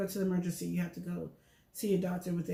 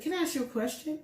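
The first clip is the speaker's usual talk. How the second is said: pointed, higher question with an edge; changed tone; 8 semitones higher than usual. Retold or imitated. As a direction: turn the question into a challenge. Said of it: "now my tone changed".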